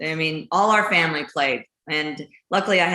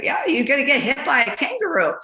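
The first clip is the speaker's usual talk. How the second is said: matter-of-fact local; 6 semitones higher than usual. Retold or imitated. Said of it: "And he's like".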